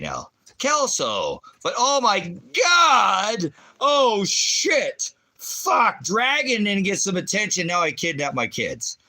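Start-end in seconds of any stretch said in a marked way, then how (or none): 1.6-9.0 high, loud mock panic, slowly drawn out; high mock outcry. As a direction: shriek it like a hammed-up drama queen. Mocking a viewer's outburst.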